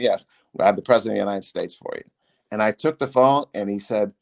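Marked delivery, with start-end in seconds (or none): 0.0-2.0 operator. Retold or imitated. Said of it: "I said".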